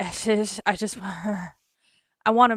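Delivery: very slow, drawn-out repeats, every word stretched. Describing a movie actor's speech, imitating Matthew McConaughey's voice. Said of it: "The way that he says".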